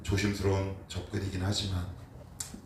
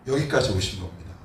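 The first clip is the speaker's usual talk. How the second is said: ordinary delivery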